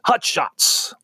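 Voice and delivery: high, exclaimed title in a put-on voice; exclamation-point delivery. Shown as a demonstration. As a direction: shout out the title as if it ends in an exclamation mark. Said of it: "supposed to say it like that".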